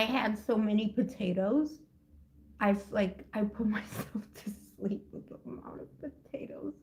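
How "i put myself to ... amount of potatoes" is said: giggly, much softer whisper. Real, not acted. Streamer confessing to viewers how many potatoes she ate, whispered. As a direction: confide it in a hushed whisper, laughing.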